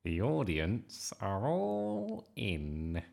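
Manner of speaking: slow, sing-song vicar voice; beaming vicar. A narrator's reading. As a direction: announce it cheerily, stretching the words.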